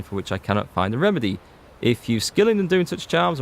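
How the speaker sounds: lightly voiced notice reading, a touch theatrical; reading a notice aloud. Streamer reads a villager's plea from the board, lightly dramatic. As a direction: read it out like a town crier's poster, mildly.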